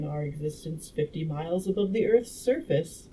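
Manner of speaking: measured audiobook reading; story narration. A narrator's reading. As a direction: read the scientist's explanation out like a storyteller.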